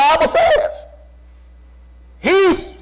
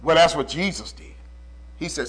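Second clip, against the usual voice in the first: very low, soft preaching voice; hushed; 11 semitones lower, 12 dB quieter than usual. Real, not acted. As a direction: drop right down into an awed near-murmur. Hushed retelling of the calmed storm.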